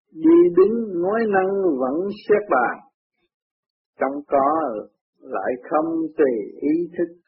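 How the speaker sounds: slow chanted verse with stretched syllables; ngâm kệ. A narrator's reading. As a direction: chant the gatha in measured phrases. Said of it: "kệ". (ngâm kệ chậm, ngân dài)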